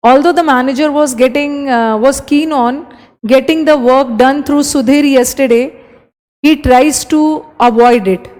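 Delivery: very slow, careful reading; slow dictation. Shown as a demonstration. Teacher slowly reading an exam sentence to students. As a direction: read every word slowly for the class. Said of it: "reads exam sentence aloud".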